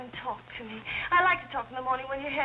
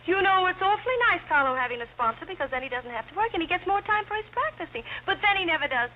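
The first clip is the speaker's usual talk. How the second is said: screwball comedy banter; 4 semitones higher, 4 dB louder than usual. Acted. Giddy chatter to butler.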